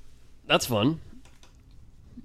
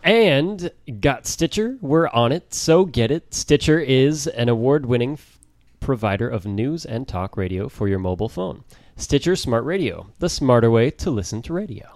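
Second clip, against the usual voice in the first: ad read; 2 semitones higher than usual. Acted. Reads sponsor ad.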